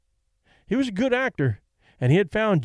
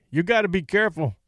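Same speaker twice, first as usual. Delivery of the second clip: warning; 3 semitones higher, faster than usual. Acted. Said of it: "Danny's manager warned".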